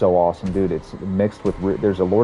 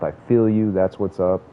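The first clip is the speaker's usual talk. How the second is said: mock generic comment. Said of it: "generic comments coming out of my mouth".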